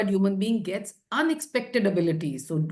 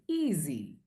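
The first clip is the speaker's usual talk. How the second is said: imitated voice modulation; 5 semitones lower, 7 dB quieter than usual. Evaluator mimicking a speaker's answer to the topic master, low modulated voice. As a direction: mimic a low, soft, drawn-out reply. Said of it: "So your voice modulation".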